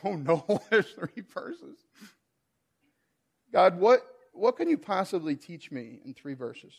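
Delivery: laughing worry. Retold or imitated. Pastor retelling doubt about three verses, laughing. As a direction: chuckle through the doubt. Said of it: "I'm thinking to myself".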